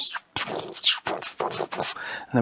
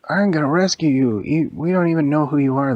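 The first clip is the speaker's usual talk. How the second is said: louder, higher shout up to someone; hero calling out; 4 semitones higher, 6 dB louder than usual. Acted. Elvie answers the captive lady, acted calling out. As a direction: call it up to a captive, storybook hero.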